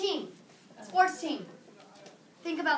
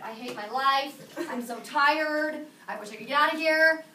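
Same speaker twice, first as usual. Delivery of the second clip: mock misery. Teacher voicing a student's unreadable face, mock misery. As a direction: groan it like a bored student. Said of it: "This face, very difficult to interpret".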